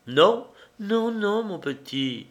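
slow, drawn-out repeated no; mild drawn-out refusal; dragging the words. A narrator's reading. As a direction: drag each word out. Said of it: "répéta-t-elle en traînant les mots".

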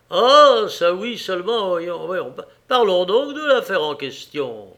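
loud, high burst, then urging; eager interjection. A narrator's reading. Diner keen to discuss the inheritance, eager. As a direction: jump in impatient to get to business.

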